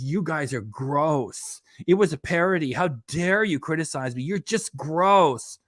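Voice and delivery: slow, drawn-out mimicry of her whine; mocking imitation. Mimicking streamer's dismissive reply to critics, slow and drawn out. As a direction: draw it out like a sulky brat. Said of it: "sent back and says".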